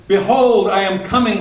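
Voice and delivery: high, loud, ringing declaration; emphatic proclamation. Retold or imitated. The preacher repeats it a third time for emphasis, high and loud. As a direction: hammer it home for emphasis. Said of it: "for emphasis".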